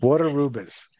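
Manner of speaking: Waterubas with an R closing "water" and opening "ru"; linking R in Waterubas. Shown as a demonstration. Learner practising the name aloud, Waterubas with both Rs sounded. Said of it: "it ends with an R and begins with an R".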